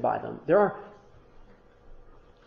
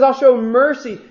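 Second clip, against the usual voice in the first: God speaking; 6 semitones higher, 7 dB louder, slower than usual. Acted. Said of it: "He says".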